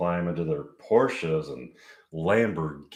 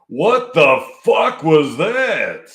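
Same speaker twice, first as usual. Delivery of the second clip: surprised; 7 semitones higher, 9 dB louder, much slower than usual. Acted. Mike reacts to Maud leaving.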